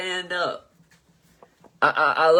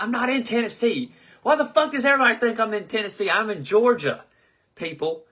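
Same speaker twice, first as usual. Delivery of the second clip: exasperated; 8 semitones higher, 3 dB louder than usual. Real, not acted. Exasperated at viewers' mistake.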